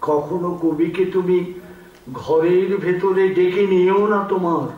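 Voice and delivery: measured poetic recital with long pauses; poem recitation. Acted. Reciter offers a poem by a lately deceased poet, measured recitation.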